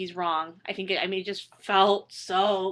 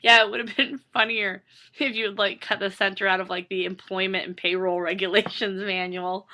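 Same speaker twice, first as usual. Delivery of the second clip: dry comeback; 3 dB louder than usual. Retold or imitated. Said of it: "And I said".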